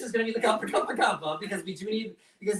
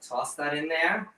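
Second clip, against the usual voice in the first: sultry; slower than usual. Real, not acted. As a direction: purr the word "Toss" slowly. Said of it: "I like how you say toss".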